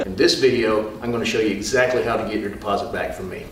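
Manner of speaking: starting loud after laughing; loud take, still laughing. Real, not acted. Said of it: "make it on the bloopers".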